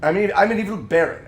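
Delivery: a hint of a different actor playing the baron; mild impression of the replacement narrator; recast villain voice. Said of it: "his voice became".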